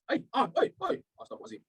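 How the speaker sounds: breathless whispered ai, astagfirullahalazim; exasperated under-the-breath exclamation; whispered astagfirullah. Real, not acted. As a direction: whisper it in dismay at stumbling. Stumbles over word, exclaims.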